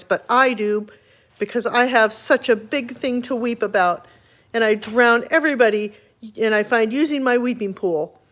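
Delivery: lightly voiced stern rhinoceros; angry voice. Rhinoceros warning the father, mildly angry. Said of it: "said the angry voice".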